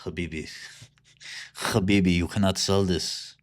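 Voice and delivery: put-on Arab accent, urging a friend; mock Arab accent. Sheikh's associate warning habibi not to sell, mock Arab accent. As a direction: play an Arab investor in a thick accent.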